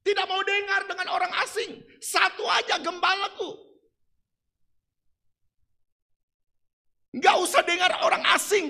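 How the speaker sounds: loud, high insistence; sheep's loud refusal. Acted. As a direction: shout it as the stubborn sheep.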